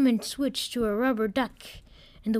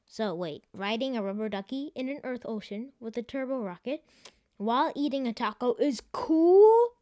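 exclaiming; 3 semitones higher than usual. Acted. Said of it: "the computer exclaimed".

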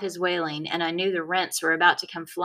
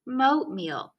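put-on insistent kid; 6 semitones higher than usual. A narrator's reading.

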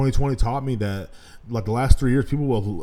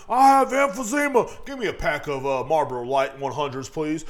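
mocking customer; 3 semitones higher than usual. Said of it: "They're screaming at you while they're".

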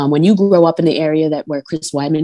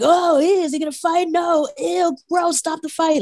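grossed out; 12 semitones higher than usual. Retold or imitated. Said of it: "we were like".

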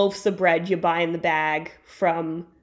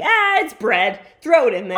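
a hint of a carefree dad, louder; imitating dad; 4 semitones higher, 5 dB louder than usual. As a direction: toss it off like dad. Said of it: "I think it's more just like".

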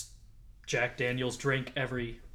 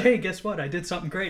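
excited bragging; 6 semitones higher, 7 dB louder, faster than usual. Retold or imitated. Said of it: "They're like".

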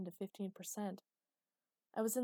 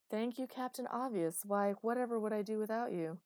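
sarcastic; 3 semitones higher, 3 dB louder than usual. Acted. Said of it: "irritated and snippy and sarcastic".

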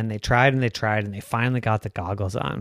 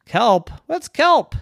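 high, baffled cartoon dad; a confused father asking; puzzled daddy unicorn; 10 semitones higher, 5 dB louder, slower than usual.

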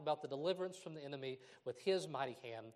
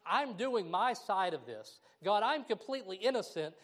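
indignant protest; 3 semitones higher than usual. Acted. Believer complaining to God that he did his part, indignant.

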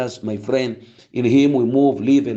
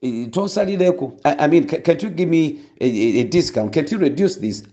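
haggling woman; 2 semitones higher than usual. Retold or imitated. Pastor retelling a woman haggling with a boda driver, laughing. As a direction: bargain with the boda driver, amused. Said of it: "the lady goes like".

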